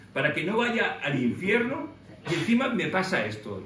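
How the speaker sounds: like a tired servant arguing his case; exasperated complaint to God. Pretend. Preacher imagining himself in prison, complaining to God in exasperation. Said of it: "yo hubiese dicho".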